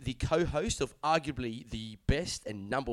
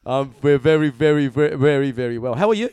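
loud, overdone cheerful answer; hammed-up enthusiasm; hearty, loud; 10 dB louder, faster than usual. Real, not acted. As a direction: pile on the verys with gusto. Overly hearty greeting.

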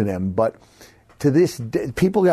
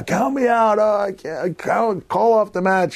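high, pleading mock whine; whiny plea; 9 semitones higher than usual. Wrestler begging the referee to count him out, mock whine. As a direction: beg the ref to stop it like a hammed-up coward. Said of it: "'Cause I say".

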